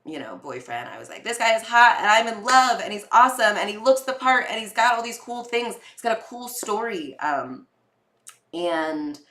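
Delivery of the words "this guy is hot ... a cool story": louder, brighter rush of gushing. Retold or imitated. Telling family about her boyfriend, loud gushing. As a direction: gush like a smitten girl.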